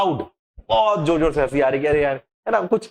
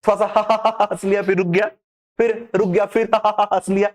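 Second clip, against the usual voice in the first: stop-start laughing; 4 semitones higher than usual. Shown as a demonstration. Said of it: "क्या रुक रुक के हंस रहा है?".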